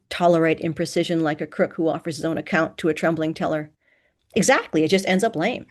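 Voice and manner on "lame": "lame" emphasized, patronizing; stress on LAME. A narrator's reading. Student tells the lecturer it ends up lame, "lame" emphasized. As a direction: lean patronizingly on the word "lame". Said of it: "The last word was emphasized for my benefit".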